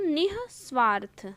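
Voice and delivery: "निस्वार्थ" as nih, then svaarth; visarga pronounced. Shown as a demonstration. Teacher demonstrating the visarga to students, nih-svaarth. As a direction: breathe an h after ni in "निस्वार्थ". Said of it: "मैं बोल रही हूँ".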